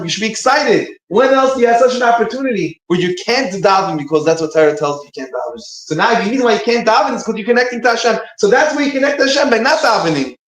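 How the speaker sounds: high-pitched, emphatic encouragement; rally a despondent brother, pitch riding high; excited exhortation. Retold or imitated. Zusha urges his jailed brother to rejoice, excited.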